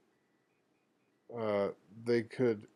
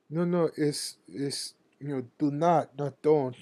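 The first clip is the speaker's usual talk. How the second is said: raised, louder correcting "not don't"; angry insistence; 5 semitones higher, 5 dB louder than usual. Retold or imitated. Coworker angrily corrects the narrator: raised and louder. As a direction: insist loudly, annoyed at being corrected. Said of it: "he would get angry and say".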